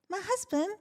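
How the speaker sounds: mock-outraged comeback to the banker; indignant retort. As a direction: fire it back, insulted and incredulous.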